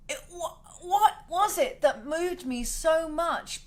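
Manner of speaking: slow, choked-up question with a catch in the voice; fighting back tears; teary. Real, not acted. Telling viewers about a singer, choked up and teary. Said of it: "I start to get all teary".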